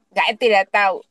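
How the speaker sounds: "saya tidak tahu" in Papuan Indonesian dialect. Retold or imitated. Patient answering the surgeon in Papuan dialect. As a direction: say it the Papuan way, first word cut short. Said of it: "Dengan dialek Papua begitu".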